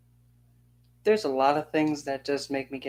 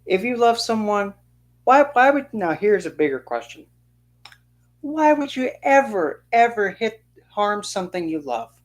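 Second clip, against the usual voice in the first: much higher, louder, pleading disbelief; impassioned plea; 7 semitones higher, 4 dB louder than usual. Real, not acted. To abusive parents, a high impassioned plea. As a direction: beg them to see the sense. Pleading about loving and hitting.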